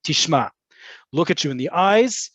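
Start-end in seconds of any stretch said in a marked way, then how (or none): 0.0-0.5 "Tishma" said as a direct statement, falling at the end. Shown as a demonstration. Imitating female superiors getting your attention, "Tishma" landed with a fall. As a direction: land "Tishma" on the last syllable to get attention. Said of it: "when they say it like that".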